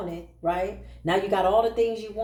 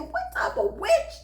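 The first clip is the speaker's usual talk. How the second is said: very high, slow, shrieking laugh through the insult; laughing mock outrage; slower than usual. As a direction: cackle it out at the witches. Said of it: "I said".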